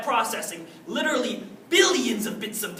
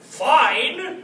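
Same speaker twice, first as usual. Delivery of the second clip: shout; 4 semitones higher, 6 dB louder than usual. Retold or imitated. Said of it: "I shout".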